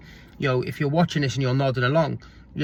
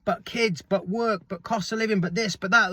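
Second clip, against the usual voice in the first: whiny higher voice listing excuses; mock excuses; 5 semitones higher than usual. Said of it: "I know what you're gonna say".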